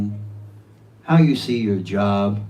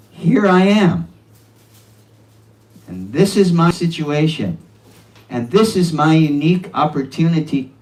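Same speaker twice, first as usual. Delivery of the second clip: fervent declaration; 6 semitones higher, 6 dB louder than usual. Acted. Declaring one's situation to Krishna.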